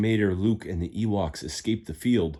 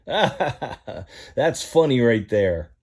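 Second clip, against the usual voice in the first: slow drawled Mater; 4 semitones higher, 5 dB louder, much slower than usual. Acted. Mater laughing at tractor.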